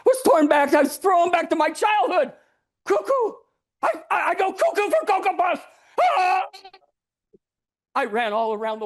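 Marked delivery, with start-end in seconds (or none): 0.1-5.6 much higher, louder manic shouting; frantic outburst. Acted. Narrator snapping back to childhood, manic and loud. 6.0-6.5 high startled ah yell; manic cry. Acted. Narrator crying out in his frenzy, a high yell.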